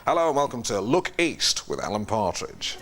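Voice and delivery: a lightly put-on regional TV news host; slow, measured presenter greeting; Alan Partridge as news presenter. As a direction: open a local news programme, unhurried. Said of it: "sort of an Alan".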